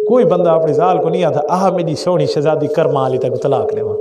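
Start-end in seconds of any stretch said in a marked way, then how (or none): 1.5-4.0 mock sweet talk. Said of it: "کوئی یوں نہیں کہتا".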